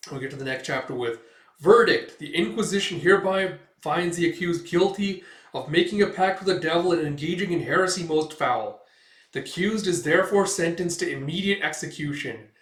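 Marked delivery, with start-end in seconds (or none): 1.6-12.5 higher and louder, a formal ruling read to the crowd; stern verdict. Acted. Inquisitor sentencing the girl to death, stern and loud. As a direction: pronounce the sentence like a grim judge.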